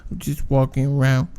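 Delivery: half-managed mimicry of a work acquaintance; coworker impression. Attempting the white trash coworker's greeting, lightly put-on soft voice. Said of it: "That's how he's like".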